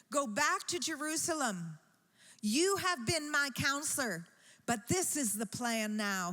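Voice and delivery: a king sending his friend back on a mission; commanding king. Acted.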